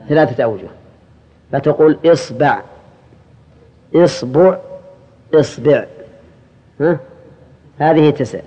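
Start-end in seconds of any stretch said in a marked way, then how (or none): 2.0-2.6 إصبع said "isba'", i then a; i-a vowels. Shown as a demonstration. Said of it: "كسر الهمزة". 3.9-4.6 إصبع said "isbu'", i then u; i-u vowels. Shown as a demonstration. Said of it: "كسر الهمزة". 5.3-5.8 إصبع said "isbi'", i in both syllables; i-i vowels. Shown as a demonstration. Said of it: "كسر الهمزة".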